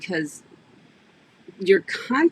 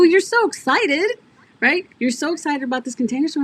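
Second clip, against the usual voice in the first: teasing excitement; 10 semitones higher, 4 dB louder than usual. Retold or imitated. Teasing friend about excitement.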